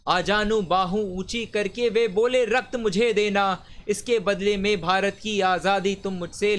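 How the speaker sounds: measured, declaimed patriotic verse; stirring poem recitation. Acted. Reciter delivers Vyas's poem on Subhash's call for blood, stirring declamation. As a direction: recite it like a rousing heroic poem.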